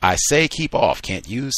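read-aloud fury, strongest on keep off; enraged. Acted. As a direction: push him off in outrage. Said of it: "said Adolf, enraged".

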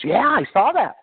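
put-on high, bright girl's voice; girl's reply. Young singer agreeing with the pastor, high girl's voice. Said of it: "She goes".

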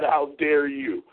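slow, measured "how dare you"; slow affront with falling end; restrained indignation. Real, not acted. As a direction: stretch out the challenge, keeping it contained. First take of indignant challenge.

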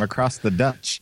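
light Kiwi vowel turning ditch into "Dutch"; attempted New Zealand accent. Host teasing the sister across the ditch, light New Zealand accent. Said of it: "doing a really good New Zealand accent".

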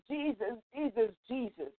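soft, barely voiced Jesus, Jesus; quiet private prayer; murmured prayer. Shown as a demonstration. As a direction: murmur the name under your breath. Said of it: "just saying in my head".

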